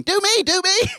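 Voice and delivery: high, eager shouting; excited fans shouting. Retold or imitated. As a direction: beg loudly like eager fans.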